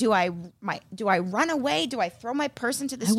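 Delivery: ordinary delivery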